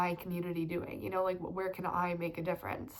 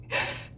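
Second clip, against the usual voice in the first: brief laugh holding back tears; teary laugh. Real, not acted. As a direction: laugh off the emotion.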